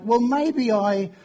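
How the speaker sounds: slow, drawn-out tentative wavering; unsure, hesitant. Acted. Preacher imitating unsure believers asked about their faith, hesitant. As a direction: trail off unfinished, as if unsure of your belief. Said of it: "they'll use words like".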